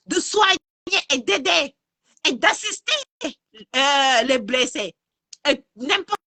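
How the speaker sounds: furious outcry, voice climbing high; angry. Real, not acted. Live rant against doctors refusing care.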